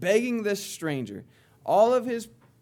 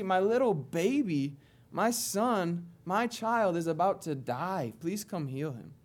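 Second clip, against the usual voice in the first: tender plea. Retold or imitated. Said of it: "term of endearment".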